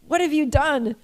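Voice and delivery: mock the wife gasping at him; wife's shocked cry. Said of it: "she's like this".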